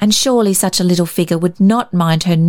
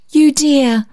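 tender mumble; 7 semitones higher than usual. Acted. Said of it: "mumbled the lady".

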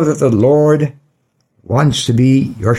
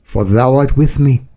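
solemn Bible reading; scripture reading. Acted. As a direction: read it like scripture from the pulpit. Reads Psalm 23 aloud.

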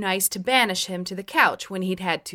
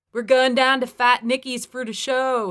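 put-on loud, higher Pittsburghese drunk voice; Pittsburgh accent; 5 semitones higher, 5 dB louder than usual. A narrator's reading. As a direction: lay on full Pittsburghese, louder. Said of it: "he said in full Pittsburghese".

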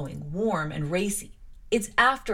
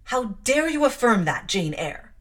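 loud, high indignant challenge; stern rebuke; 3 semitones higher, 5 dB louder than usual. Acted. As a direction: demand it like an outraged aunt. Mrs Reed rebukes Jane.

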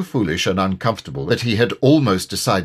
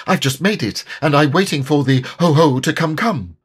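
Piglet voice; 6 semitones higher, 4 dB louder than usual. A narrator's reading. Piglet flustered.

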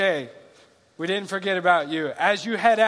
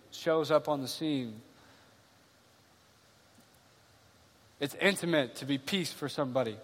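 hushed tender preaching; 2 semitones lower, 4 dB quieter than usual. Acted. Quiet reflective preaching.

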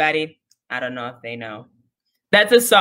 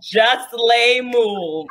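slow repeat; 3 semitones higher, much slower than usual. Real, not acted. Savoring the punchline.

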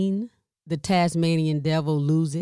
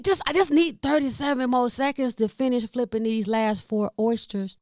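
higher, pleading for a few seconds; 6 semitones higher than usual. Retold or imitated. Frying oysters when mom calls, higher pleading. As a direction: beg for just a little more time. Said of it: "I'm like".

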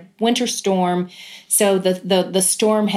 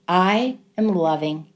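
savouring. Retold or imitated. Mother thought to herself watching her son play, savouring.

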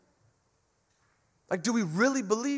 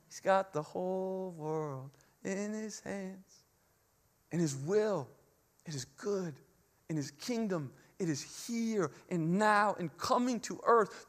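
soft reminder; 6 dB quieter than usual. Pretend.

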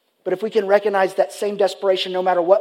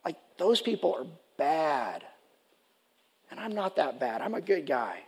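indignant Jonah; 3 semitones lower, 11 dB quieter than usual. Retold or imitated. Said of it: "Like Jonah could have said".

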